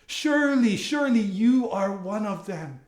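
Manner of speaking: high-pitched opening, falling away; emphatic accusation. Pretend. Someone recognizing a follower of Jesus, emphatic and high.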